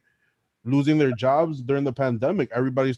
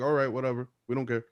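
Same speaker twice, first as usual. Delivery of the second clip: bored dismissal; 2 semitones lower, 5 dB quieter, faster than usual. Retold or imitated. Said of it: "They'll be like".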